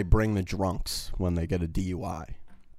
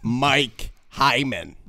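depressed voice; 4 semitones higher, much slower than usual. Retold or imitated. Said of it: "his depressed fucking name".

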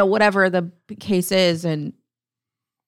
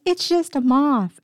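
higher, drawn-out imitation of a dismissive husband; mock dismissive; 7 semitones higher, slower than usual. Wife quoting her husband about the bug, mock dismissive. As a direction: draw it out high, imitating someone brushing off a fear.

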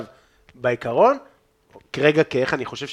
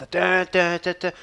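imitated horn; 4 semitones higher, slower than usual. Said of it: "עם זמבורה".

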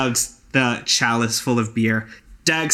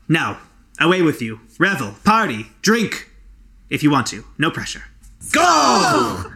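rising hearty send-off; 3 semitones higher than usual. Acted. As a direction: cheer them off, ending in a shout. Dag sends them off to party.

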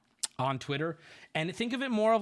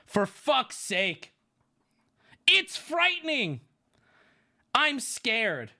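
put-on teen girl voice; 6 semitones higher, 4 dB louder, much slower than usual. Reading teen girls' messages aloud.

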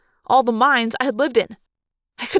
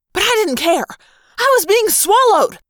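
rising panic; 9 semitones higher, 4 dB louder than usual. A narrator's reading. Panic climax while swallowed.

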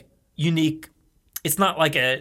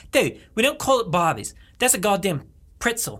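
mock-indignant Aussie bloke; Australian accent; 4 semitones higher than usual. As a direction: protest in a put-on Aussie accent. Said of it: "I speak Australian the whole time".

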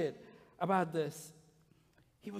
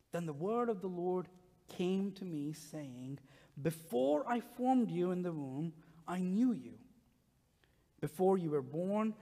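measured, soft reading of the passage; scripture reading; 3 dB quieter than usual. Acted. Pastor reading Jeremiah's call to the congregation, reverent. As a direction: read it with reverence, letting it settle.

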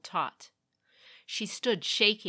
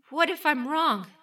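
high, louder worried question; anxious doubt; 10 semitones higher, 7 dB louder than usual. A narrator's reading. Meiko fearfully doubting herself before the storm. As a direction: fret it to herself.

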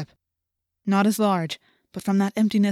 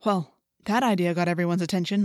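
ordinary delivery

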